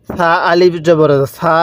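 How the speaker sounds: soft s at the start of সা, vowel held long; slow spelling with a softened, stretched "সা"; soft consonant. Shown as a demonstration. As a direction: say সা softly articulated and drawn out. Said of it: "নরম করে উচ্চারণ করব".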